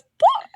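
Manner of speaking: high squeaky cartoon pop; Animal Crossing pop. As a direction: pop it out like a game sound. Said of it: "like Animal Crossing".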